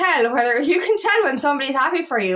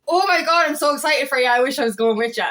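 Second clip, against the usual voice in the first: imitating genuine excitement. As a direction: show how real joy for a friend sounds. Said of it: "your instant thought should be".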